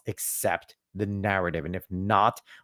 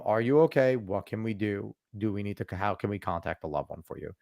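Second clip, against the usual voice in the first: softer, lower caring questions; gentle concern; 3 semitones lower, 7 dB quieter than usual. Retold or imitated. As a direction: ask gently if they're okay. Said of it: "asking them".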